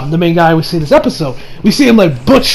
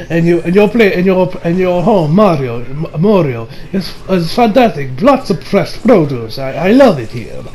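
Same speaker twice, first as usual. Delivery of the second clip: lower, imitated Italian accent; 3 semitones lower than usual. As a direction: praise it as an Italian chef, in accent. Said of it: "I'm going to talk with an Italian accent".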